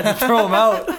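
high voice breaking into laughter; laughing while quoting. Retold or imitated. Host retelling ex's message about smelly shirts, laughing. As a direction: quote her through a laugh.

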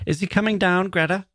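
very high, eager question; high-pitched, excited asking; crying out. A narrator's reading. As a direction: call it up in a high, light voice. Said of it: "she cried".

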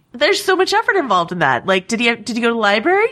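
excited. Real, not acted. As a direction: gush about the effort he made. Excited riff on his effort.

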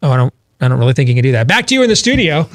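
hurried mock reporter, pitch jumping up on the sign-off; imitating a reporter hastily bailing out; flustered field reporter. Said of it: "they've got a reporter out in the field".

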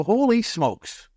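very high, squeaky excitement; starstruck. Retold or imitated. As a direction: squeal like a fan meeting his hero. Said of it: "I go".

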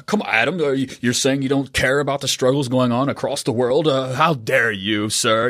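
mock outrage like an online troll; mock Twitter critic. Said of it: "my Twitter people voice".

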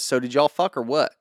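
light Southern accent on a retold question; a hint of Southern US accent. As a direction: imitate her with a mild Southern accent. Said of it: "That's your Southern accent?".

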